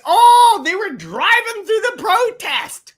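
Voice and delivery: sarcastic imitation of a protester's complaint; mock indignant protester. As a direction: ham up the offended marcher.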